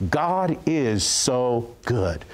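drawn-out, very slow; slow tearful declaration. Retold or imitated. Woman in tears declaring to the pastor, drawn out slowly. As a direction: stretch each word out in awe. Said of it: "she began to declare these words".

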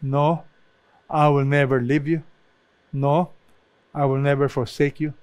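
each "No" set apart by a pause; measured, deliberate "No", then "I will never"; emphatic negatives. Shown as a demonstration. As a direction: let each "No" stand alone before "never". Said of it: "It's very emphatic".

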